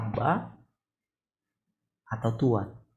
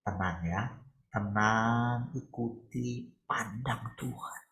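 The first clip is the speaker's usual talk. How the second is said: softer and slow, settling them down; calm soothing; 6 dB quieter, much slower than usual. Real, not acted. Preacher calming the listeners to look to God, soft and slow. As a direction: hush them gently into stillness.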